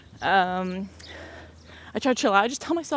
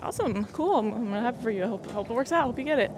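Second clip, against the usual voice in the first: happy mom; 3 semitones higher than usual. Retold or imitated. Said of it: "she was super happy about it".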